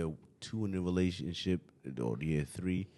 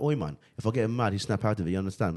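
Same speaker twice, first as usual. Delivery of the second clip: put-on British accent; 2 semitones higher than usual. A man in the hood, in a put-on British accent. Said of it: "school with a British accent".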